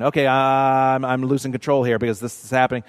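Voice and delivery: a flustered inner voice speeding up; imitating a rattled mind, racing; mock panicked thought. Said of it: "when you're thinking".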